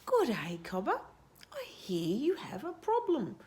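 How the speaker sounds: lightly warbled scrub fowl; sing-song bird greeting; warbling bird voice. Acted.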